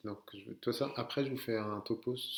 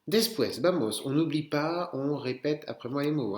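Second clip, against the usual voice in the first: loud, higher rallying teacher voice; calling out; 4 semitones higher, 7 dB louder than usual. Real, not acted. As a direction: rouse the class to join in. Teacher rallies class to repeat aloud. (interpellation forte de la classe)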